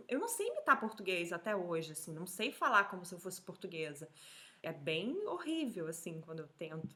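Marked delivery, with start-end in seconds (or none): none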